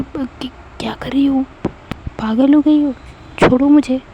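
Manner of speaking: flustered protest in the trial room; startled protest. Acted. Sheetal startled by neck kiss.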